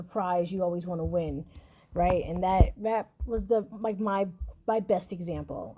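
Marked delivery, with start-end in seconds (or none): 2.2-5.8 stuttering. Real, not acted. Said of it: "I am, like, stuttering all over the place today".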